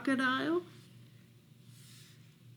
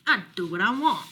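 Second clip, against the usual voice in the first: fast, huffy grumble; a touch of a huffy bear; huffed; faster than usual. Acted. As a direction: toss it off like a sulky bear. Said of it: "huffed Bear".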